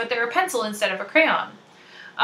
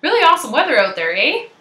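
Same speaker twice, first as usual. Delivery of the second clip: quick Canadian small talk, rising "eh"; Canadian lilt with a tag "eh"; playfully Canadian; 4 semitones higher, 4 dB louder, faster than usual. Shown as a demonstration. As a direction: chat like a hammed-up Canadian. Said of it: "feel a little more Canadian".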